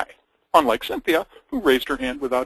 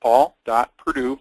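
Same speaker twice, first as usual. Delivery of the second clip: slow dictation; 4 dB louder, slower than usual. Shown as a demonstration. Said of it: "Got that?".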